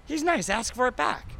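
a playful high impression of a friend; imitating Jeff Gordon. Jeff Gordon quoted urging him.

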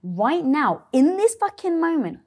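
rally yourself, pushing hard; fired-up self-talk. Retold or imitated. Self pep talk turning point.

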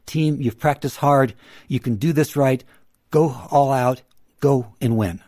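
upbeat, supportive pep talk; encouraging coach. Shown as a demonstration. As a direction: cheer the team on warmly.

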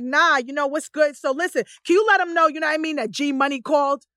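lightly played streetwise caller; casual code-switched voice. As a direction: switch into easy, slangy phone talk. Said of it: "there are times when I'm like".

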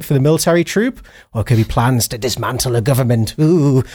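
usual speaking voice

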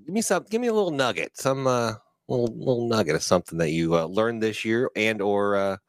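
a hint of a fight announcer. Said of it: "it was my announcer voice".

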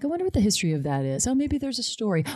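breezy, pleased with herself, rising high; mock proud of her own growth; airy self-satisfied inner voice; smug self-quote.

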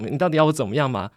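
mildly exasperated mock protest; annoyed. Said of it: "开始还有一种不爽". (模仿男友不爽地抱怨)

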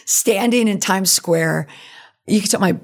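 slightly creaky, tired voice; creaky after a long week. Real, not acted. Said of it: "my voice is still kinda creaky".

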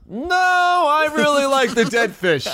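laughing mock refusal. Acted reply, laughing.

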